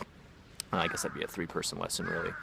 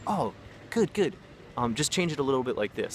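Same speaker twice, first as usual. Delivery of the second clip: encouraging correction; 6 semitones higher than usual. Acted. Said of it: "that's how I would correct somebody".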